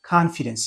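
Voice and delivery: "confidence" slowly, with an open "kahn" first syllable; slow, careful "confidence" with AH up front; model pronunciation. Shown as a demonstration. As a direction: draw out "confidence" as KAHN-fi-dens. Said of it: "it pronounce like".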